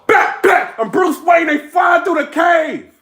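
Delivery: slow shouted rap punchline; shouted battle bars. Retold or imitated. A battle rapper's bars again.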